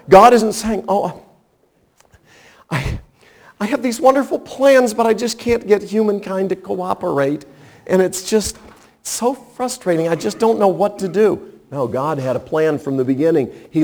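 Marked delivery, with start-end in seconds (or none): 0.9-11.4 mock frustrated God. Preacher voicing a frustrated God.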